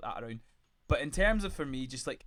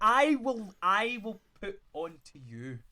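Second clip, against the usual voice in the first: mock challenge; 7 semitones higher, 4 dB louder, slower than usual.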